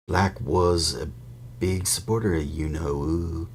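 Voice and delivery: lightly voiced gossiping bus conductor; a hint of eager young conductor; Stan's voice. Stan gossiping to Harry on the bus, lightly voiced.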